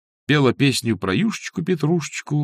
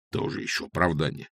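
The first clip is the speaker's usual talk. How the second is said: softer, lower grumble; grumbling; 5 semitones lower, 4 dB quieter than usual. A narrator's reading. Old cook grumbles at Masha's excuse, softer and lower. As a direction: grumble it under your breath. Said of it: "проворчал он".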